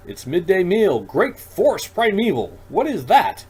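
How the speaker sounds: put-on high, loud, sing-song old creature; a startled hermit blurting out.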